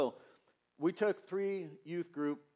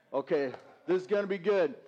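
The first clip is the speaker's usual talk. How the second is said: louder, eager repeat; rising excitement; 3 dB louder than usual. Retold or imitated. Pastor hyping himself up as the tank starts, louder and eager. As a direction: let the excitement spill out this time.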